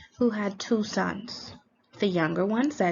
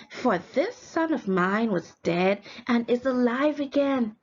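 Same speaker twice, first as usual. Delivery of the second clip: eager father; 3 semitones higher than usual. Acted. Father orders servants, celebrating.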